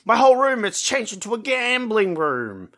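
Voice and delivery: high, hurried alarm; mock panicked Costello. Costello running to the others, high frantic alarm. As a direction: play it high and frantic, calling for help. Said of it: "He's like".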